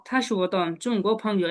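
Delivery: very slow, each syllable apart; syllable by syllable teacher model; slow model reading. Shown as a demonstration. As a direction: read it out slowly for learners to copy. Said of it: "এই লাইনটা পড়েন তো".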